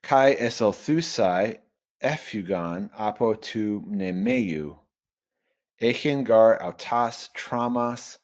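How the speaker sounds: careful classroom recitation of Koine Greek; measured, deliberate reading aloud; slow Greek reading. Shown as a demonstration. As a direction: read the Greek slowly, word by word. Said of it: "teacher reads the Greek aloud".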